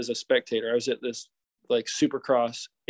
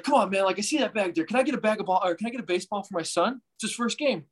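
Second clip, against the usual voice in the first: pleading fan; 5 semitones higher, faster than usual. Retold or imitated. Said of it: "He's like".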